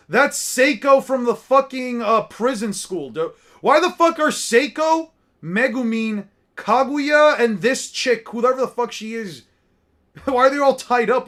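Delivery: loud high incredulous ranting with a laugh; excited disbelief. Real, not acted. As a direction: rant at the picture, loud and high in mock outrage. Outraged amusement at tied-up characters.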